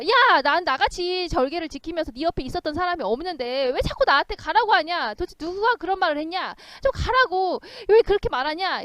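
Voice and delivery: high, loud indignant ghost telling someone off; mock scolding. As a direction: berate them in hammed-up outrage. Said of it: "울러대면서 꾸짖다는 거야". (높고 크게 꾸짖는 척 따지듯)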